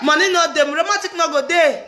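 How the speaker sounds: emphatic shout. Real, not acted. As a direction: proclaim it loud through laughter. Emphatic laughing proclamation.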